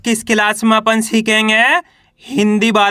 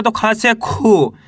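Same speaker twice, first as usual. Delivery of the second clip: खा से खी slowly, long ee in खी; slow demo; much slower than usual. Shown as a demonstration. Teacher slowly showing students खा becoming खी. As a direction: spell it out for pupils. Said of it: "बड़ू की मात्रा है".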